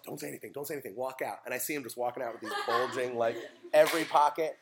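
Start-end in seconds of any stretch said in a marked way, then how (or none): 0.0-1.4 soft, conspiratorial instruction; furtive aside. Retold or imitated. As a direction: slip it to the kid quietly. Sneaking the boy candy.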